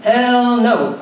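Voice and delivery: "Hell no." said loud and firm, falling hard; meant it. Acted. Told to mean it, she shouts "Hell no." loud and firm. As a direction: bark out "Hell no." with full conviction. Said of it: "Say it like you mean it".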